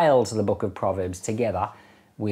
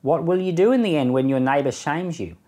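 measured, solemn reading of proverbs with long pauses; scripture reading. Acted. Reading Proverbs aloud to the listeners, in a measured solemn voice.

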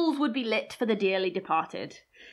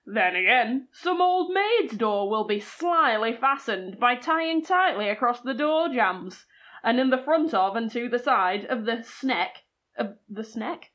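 lightly put-on Yorkshire accent reading; Yorkshire-accented storyteller, measured. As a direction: read it out in a Yorkshire voice. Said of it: "That's my Yorkshire accent".

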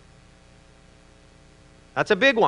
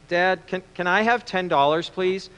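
small, soft, hesitant request; lightly acted downcast child, trailing quieter; 5 dB quieter than usual. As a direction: ask timidly like a dejected boy. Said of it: "down and out".

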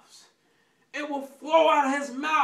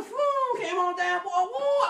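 mock thrill scream; 5 semitones higher, slower than usual. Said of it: "I was screaming".

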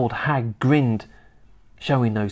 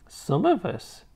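put-on old woman whispering; 7 semitones higher, 4 dB quieter than usual. A narrator's reading. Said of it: "whispering in a throaty sort of voice".

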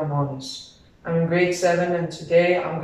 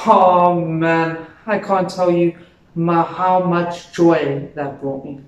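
louder, drawn-out relish; gloating relish; 4 dB louder, slower than usual. Acted. A monster telling how much joy revenge brought, loud gloating. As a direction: savour the revenge and stretch it out.

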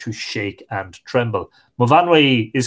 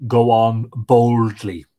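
fairy voice; 3 semitones lower, 3 dB louder, slower than usual. A narrator's reading. Fairy urges Tig on.

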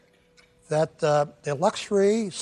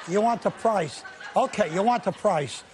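talking while chewing candy. Real, not acted. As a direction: speak round a piece of candy. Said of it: "What are you chewing on".

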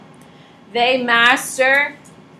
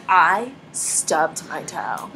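mock whiny toddler; 5 semitones lower, much slower than usual. Toddler wailing imitated.

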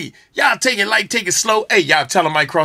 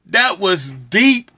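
drawn-out awe; much slower than usual. Real, not acted. Stunned reaction after the song.

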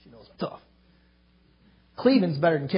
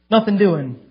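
louder, with the weight on "Nothing"; firm refusal; 6 dB louder, slower than usual. Retold or imitated. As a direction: repeat it harder, shutting the door. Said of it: "She said".

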